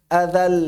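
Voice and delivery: "Adal" with the final l partly held; half-flowing l. Shown as a demonstration. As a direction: sustain the l of "Adal" just halfway. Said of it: "Setengah ngalir kan?".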